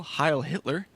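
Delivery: a bad, hammed-up German accent; mock a German officer, badly; terrible German accent. Joking about his Nazi dimension, in a bad German accent. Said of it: "That was a terrible German accent".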